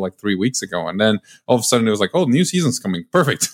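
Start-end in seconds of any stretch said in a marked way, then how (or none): 2.1-3.5 higher-pitched retold delight; excited reaction. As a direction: recall a pleased reaction, pitched up. Retelling happy surprise at news.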